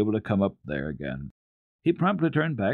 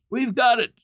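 excited announcement; 5 dB louder than usual. Acted. Peter announces news.

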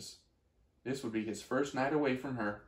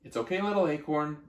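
reassuring; 3 semitones higher than usual. Acted. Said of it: "Mother reassured him".

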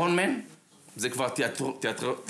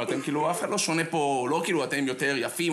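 ordinary talk, nothing marked

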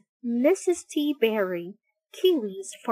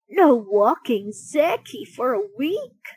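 a mild, dismayed question rising at the end; dismayed cry; 4 dB louder than usual. Acted. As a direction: echo the doctor in disbelief. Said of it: "cried Missus T Berry".

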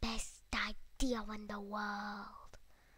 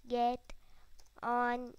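mock mean; much slower than usual. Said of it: "That sounded really mean".

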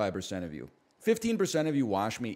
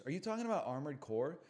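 ordinary talk, nothing marked

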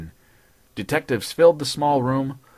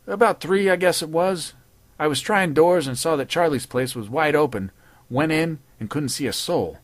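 patrolman voice; 4 semitones higher than usual. Acted. Patrolman telling his story.

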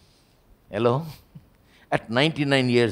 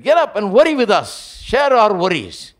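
louder and higher, a hammed-up frightened cry to wake him; mock panicked plea; 10 semitones higher, 7 dB louder than usual. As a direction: disciples begging Jesus to panic with them, half-mocking. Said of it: "They said".

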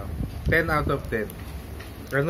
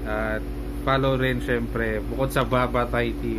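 muffled behind cloth gaiter; speaking through fabric covering; through a face mask; 2 semitones lower than usual. Real, not acted. Seen 5: Cloth gaiter covers nose and mouth throughout; reference frames unmasked.

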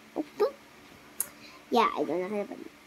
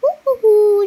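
whistling; 8 semitones higher, 8 dB louder than usual. Acted. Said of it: "that's whistling".

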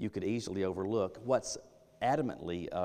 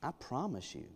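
insistent oath; 6 dB quieter than usual. Retold or imitated. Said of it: "deny something with an oath".

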